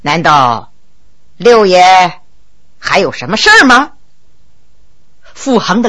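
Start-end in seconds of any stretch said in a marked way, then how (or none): 0.0-3.9 low, unhurried, dismissive question; disdainful. A narrator's reading. Subordinate halts and questions his superior, disdainfully. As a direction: ask it low, as if above caring. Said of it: "不屑地问".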